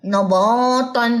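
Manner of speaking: نباتن with the sound pushed through the nose; nasal wrong way. Shown as a demonstration. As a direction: draw out نباتن slowly, nasal. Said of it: "اب اس کا فلو ناک کی طرف نہیں رکھنا". (ناک سے غلط ادائیگی)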